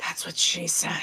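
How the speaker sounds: very quiet, slow, hushed whisper. Voicing a character lying on the couch: Kaya quietly whispering. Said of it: "quietly whispers to himself".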